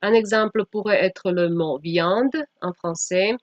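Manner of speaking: usual speaking voice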